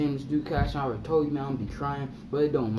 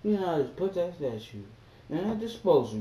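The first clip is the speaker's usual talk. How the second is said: disbelief; 7 semitones higher than usual. Retold or imitated. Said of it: "I was like".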